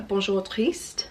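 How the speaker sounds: light, unconvincing French accent; attempted French accent. Real, not acted. Vlogger reads a French book title, attempted French accent. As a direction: have a go at a French pronunciation. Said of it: "My French accent is not French accenting".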